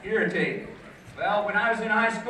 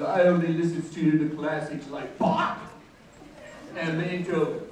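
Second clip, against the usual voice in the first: lightly put-on pompous music snob; a hint of self-important classical snob, popping the composer's name; Scott. College rival bragging about his stereo taste, lightly mocked snobbery. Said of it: "he would talk like this about it".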